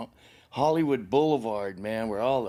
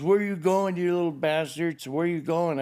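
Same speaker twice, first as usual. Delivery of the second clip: higher-pitched retold angry call; mock angry mother; 5 semitones higher than usual. Drunk mother to fleeing sons, imitated angry yell. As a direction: imitate a mother yelling after her kids.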